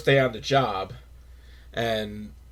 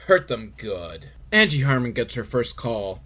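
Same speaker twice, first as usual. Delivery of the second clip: ordinary delivery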